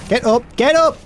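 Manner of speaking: high, loud mock yell. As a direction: shout it like snapping awake. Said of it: "before I was like".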